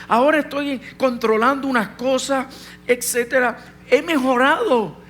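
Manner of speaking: preacher retells his own prayer to God, pleading. Retold or imitated. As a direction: beg God for an answer, reaching up. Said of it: "Y yo le pregunté a Dios".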